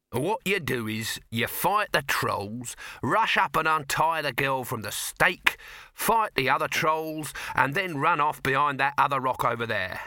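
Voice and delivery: pushy showman, spelling it out slowly; brash producer voice. Acted. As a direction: lay out the plan like a huckster. Dibbler directing, voiced.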